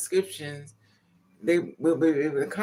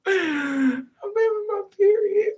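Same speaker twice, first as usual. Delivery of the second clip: high, slow laughing wail; high laughing squeal, dragged out; laughing cry; 6 dB louder, much slower than usual. Real, not acted. Laughing confession of Kotex.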